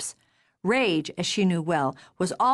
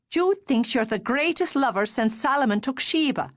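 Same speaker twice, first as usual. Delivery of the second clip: lightly raised sister's voice, fond mockery; teasing sister; 5 semitones higher than usual. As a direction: needle him affectionately as his sister. Darcy reassures her brother.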